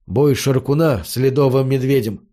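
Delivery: ordinary delivery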